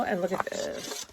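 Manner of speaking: soft unvoiced whisper, like sharing a secret; hushed whisper. Real, not acted. Showing her craft scraps to viewers, hushed whisper. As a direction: lean in and whisper it.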